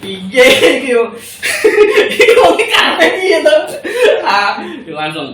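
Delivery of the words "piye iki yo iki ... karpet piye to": mock bewildered official. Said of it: "Dia juga bingung juga".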